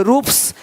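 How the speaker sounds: "रूप्स" ending in a crisp s, not z; "रूप्स" with an unvoiced s at the end. Shown as a demonstration. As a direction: say "रूप्स" with a hissing final s. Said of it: "एस का उच्चारण स होता है".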